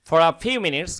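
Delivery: "For a" linked into one word, "fora"; connected speech. Shown as a demonstration. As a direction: connect the r of "For" onto "a". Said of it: "এটা একসঙ্গে আমরা connect করে দিব".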